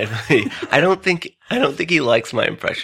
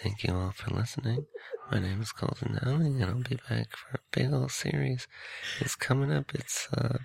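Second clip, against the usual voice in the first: mock podcast sign-off; 2 semitones higher, 10 dB quieter than usual. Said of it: "I ran out of steam there".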